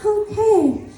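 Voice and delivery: awkward laugh. Retold or imitated. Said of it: "I'm like".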